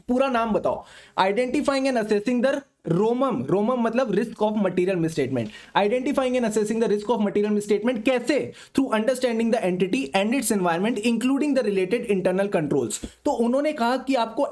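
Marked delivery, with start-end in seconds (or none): 1.2-5.5 slow dictation. Shown as a demonstration. Dictating SA 315 title. 5.8-13.1 slow dictation. Shown as a demonstration. Dictating SA 315 objective.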